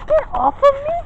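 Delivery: high, whining complaint; whiny annoyed. Real, not acted. Girl keeps bumping into her.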